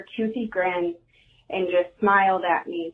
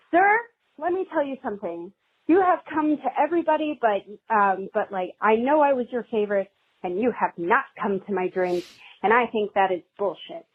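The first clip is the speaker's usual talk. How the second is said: retold telling-off. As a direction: tell him off, pitched up at first then settling. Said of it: "I yelled at him".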